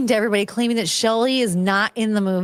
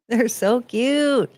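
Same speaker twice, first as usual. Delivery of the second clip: doting coo; much slower than usual. Real, not acted. Cooing at pets.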